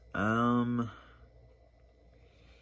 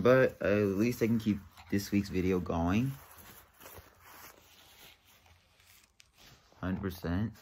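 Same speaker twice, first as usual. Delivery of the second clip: on a bumpy road. Real, not acted. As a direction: voice jolted by bumps. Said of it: "Excuse the bumps".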